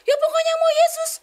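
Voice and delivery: very high, loud, emotional outburst; overwrought father. Retold or imitated. Papa answers his recovered child, overwrought loud cry. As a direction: imitate a father crying out in overwhelmed relief.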